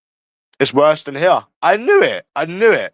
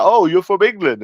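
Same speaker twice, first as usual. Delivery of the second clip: higher-pitched mock-impressed reaction; mock excitement; 8 semitones higher than usual. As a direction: imitate someone lightly gushing over a newcomer. Imagined woman excited by English newcomer.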